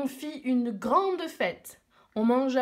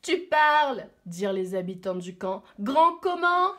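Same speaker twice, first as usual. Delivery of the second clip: loud doubting villagers; 5 dB louder than usual. Acted.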